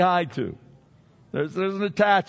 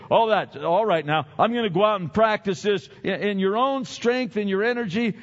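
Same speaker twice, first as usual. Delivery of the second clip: mock eager listener; 2 semitones higher, 4 dB louder than usual. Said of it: "I don't expect you guys to say".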